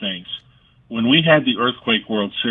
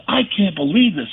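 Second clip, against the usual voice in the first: high-pitched imitation of an amazed manager; mock disbelief; 9 semitones higher than usual. Manager can't believe the player can hit, mock disbelief. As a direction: marvel in a raised, retold voice.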